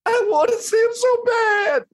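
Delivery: weeping with longing; crying out. Real, not acted. Longing to meet God, weeping.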